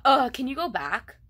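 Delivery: a hint of an annoyed student's demand; rude demand. Shown as a demonstration.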